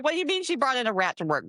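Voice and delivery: high, fast incredulous question; retold disbelief. Asking coworkers about the rat, acted disbelief. Retelling her shocked reaction.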